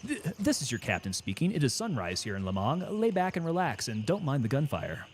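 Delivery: a hint of calm captain announcement; soothing intercom captain, in control; airline captain voice. Shown as a demonstration. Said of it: "make it sound like you're in control".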